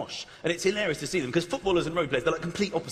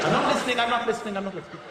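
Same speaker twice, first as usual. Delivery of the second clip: dramatic referee; much faster than usual. Retold or imitated. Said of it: "very dramatic".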